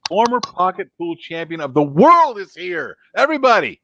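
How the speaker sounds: big swooping announcer's call. Pretend. Host presenting a champion to the audience, announcer's call. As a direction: hail the champion, lifting and stretching WORLD.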